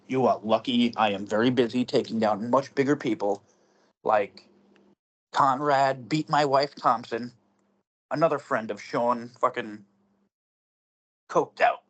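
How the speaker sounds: slow, drawn-out wrestling promo; wrestler voice. Pretend. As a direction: cut a heel promo, naming names. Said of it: "my wrestler voice".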